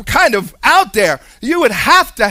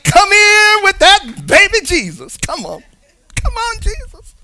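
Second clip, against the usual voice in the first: high, loud playful coaxing voice; Joseph coaxing; 11 semitones higher, 6 dB louder than usual. Acted. Joseph calling baby Jesus to come, high playful coax. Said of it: "Joseph is like".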